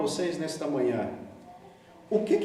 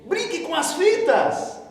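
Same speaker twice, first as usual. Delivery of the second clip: high coaxing little voice in the ear; tempting little voice; 9 semitones higher than usual. Retold or imitated. Inner voice tempting the boy, high coaxing whisper-like tone. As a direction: lure the boy toward the tapes, high and sly. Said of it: "E a vozinha do, aqui do lado".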